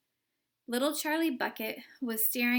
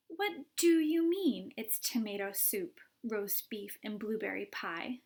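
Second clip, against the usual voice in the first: disbelieving question. Acted. Violet's incredulous question.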